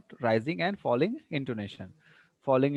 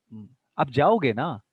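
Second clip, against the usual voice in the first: slow "aap jaoge na" turned into a query; questioning tag on "na"; statement as question. Shown as a demonstration. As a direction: seek confirmation on "na". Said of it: "you ask like this".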